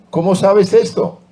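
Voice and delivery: high, startled question; asking in sudden amazement; surprised question. Acted. Old lady asking the girl how she knew, startled.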